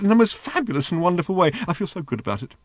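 high delighted squeal; squealing robot. A narrator's reading. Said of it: "squealed the little robot".

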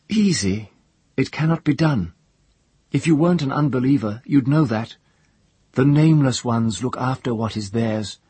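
high, loud scornful retort; scornful priestess. Acted. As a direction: scorn his boast, fast and loud. Priestess arguing with the prisoner.

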